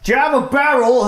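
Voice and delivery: squeaky merchant asking; high nervous voice. Acted. Jeremiah asks, voiced high.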